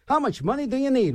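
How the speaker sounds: lightly voiced game show host question. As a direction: pitch it up like a quiz show host. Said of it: "that should be a game show".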